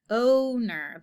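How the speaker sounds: "owner" with a long, held opening O; long O stretched. Shown as a demonstration. Teacher repeats the word for pupils, opening O drawn out. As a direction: lean on the first vowel of "owner". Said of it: "starts right out with a long O sound".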